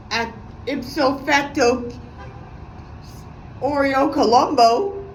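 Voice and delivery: slow, pompous mock jargon; mocking his jargon. Vlogger mocking her boyfriend's pompous jargon, slow and snide. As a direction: parody his fancy words, slowly. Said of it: "bullshit ass jargon I heard he likes to say".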